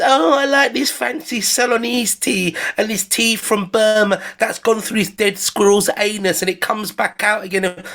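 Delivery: lightly lampoon a pretentious tea lover; prissy connoisseur parody; mock tea snob. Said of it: "I don't care what anybody says".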